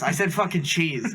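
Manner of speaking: laughing through the quoted gripe; half-laugh at the cook's mistake; retelling a cheese mix-up, chuckling; laughing complaint. Retold or imitated. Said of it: "Dude, you just put more pickles".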